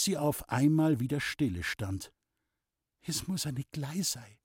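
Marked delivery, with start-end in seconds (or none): 3.1-4.4 soft, to herself; murmuring. Acted. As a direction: murmur under the breath. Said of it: "murmelte Loni vor sich hin".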